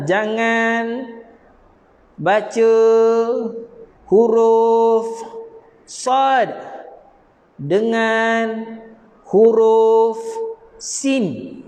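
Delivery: each word set apart with pauses, huruf and sad punched; slow separated words; spaced-out dictation. Shown as a demonstration. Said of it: "teaching dictation".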